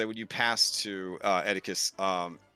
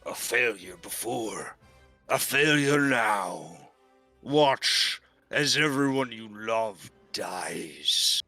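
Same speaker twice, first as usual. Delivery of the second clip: lightly voiced boar; slower than usual. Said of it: "the boar kinda says".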